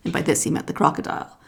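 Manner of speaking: usual speaking voice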